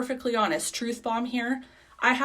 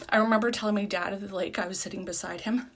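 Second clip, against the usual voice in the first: breathless talking; short of air mid-sentence; out of breath; faster than usual. Real, not acted. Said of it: "I'm out of breath".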